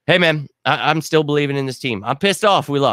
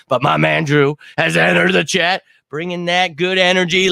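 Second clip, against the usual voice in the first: higher-pitched hype-man greeting; excited hype; 6 semitones higher, 3 dB louder than usual. Real, not acted. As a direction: hype up the new arrival. Hyping a chat arrival.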